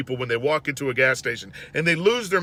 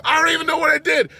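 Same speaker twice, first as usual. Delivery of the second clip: fast, higher, louder outburst; outraged; 11 semitones higher, 5 dB louder, faster than usual. Real, not acted. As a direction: blurt out in disbelief. Outraged at rude driver.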